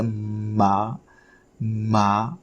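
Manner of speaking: "Ma" begun on closed lips, vowel held; lips together M. Shown as a demonstration. Teacher showing learners how lips start the word, "Ma" drawn out. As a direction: press into the M of "Ma", then open. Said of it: "put your lip together".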